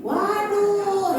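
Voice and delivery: drawn-out, high exclamation of wonder; high, lingering "waduh"; admiring gasp. Acted. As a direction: marvel at the passing view. Passenger admiring the scenery.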